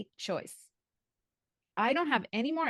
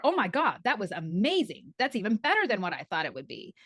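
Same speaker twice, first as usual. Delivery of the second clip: mock delight.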